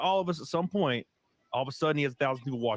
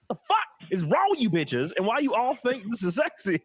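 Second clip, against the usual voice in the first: high, incredulous rant; retold exasperation; 8 semitones higher than usual. Answering women who like the accent, in high mock exasperation. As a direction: protest in baffled exasperation, pitch climbing.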